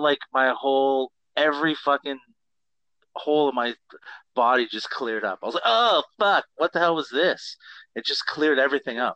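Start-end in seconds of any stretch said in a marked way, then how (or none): 5.7-7.6 high, loud startled outburst; retold shock. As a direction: re-enact being blown away. Retold shock at eating ginger.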